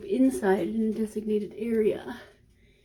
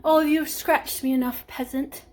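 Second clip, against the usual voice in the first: haughty cat; 4 semitones higher, 4 dB louder than usual. Retold or imitated. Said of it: "you know, like".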